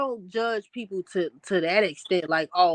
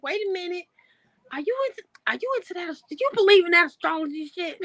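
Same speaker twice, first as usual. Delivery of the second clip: imitating friend; 9 semitones higher, faster than usual. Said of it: "you was like".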